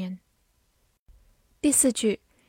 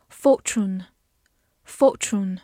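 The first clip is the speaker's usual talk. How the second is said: slow British "fortune", no r in the first syllable; non-rhotic British "fortune", drawn out; British pronunciation; much slower than usual. Shown as a demonstration. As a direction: say "fortune" slowly in a British accent. 美式发音.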